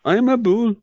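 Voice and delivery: high, put-on Arab accent; mock Arab accent. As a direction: introduce yourself in a fake Arab accent. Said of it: "can do with my Arab talk".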